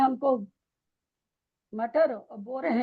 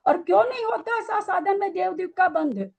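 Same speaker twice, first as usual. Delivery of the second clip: higher, heated rhetorical questions; heated challenge; 5 semitones higher than usual. Real, not acted. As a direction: press the student hard with questions.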